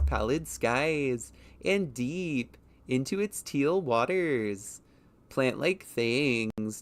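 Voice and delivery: slow, loud YouTube narrator read; YouTuber voice. Shown as a demonstration. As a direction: drag out each phrase, no sentence endings. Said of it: "let me do a test of what that would sound like".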